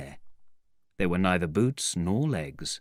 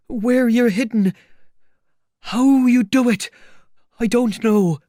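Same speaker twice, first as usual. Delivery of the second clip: very high, loud complaint; agitated tramp, voice pitched way up; exasperated outburst; 10 dB louder than usual. Acted. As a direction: shout your bafflement at the unseen man. Hurt tramp angrily questions invisible man.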